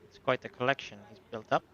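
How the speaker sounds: lightly put-on European accent; genial, self-satisfied host, lightly accented. Host greeting a guest about a farmland purchase, lightly accented.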